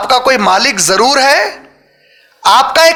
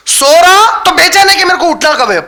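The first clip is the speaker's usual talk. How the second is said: fervent preaching; 4 semitones higher than usual. Acted. Preacher voices anxious slave.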